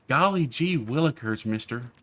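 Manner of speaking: lightly voiced gee-whiz kid; a hint of an old-timey kid; wholesome 1950s kid. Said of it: "in your sixties or your eighties".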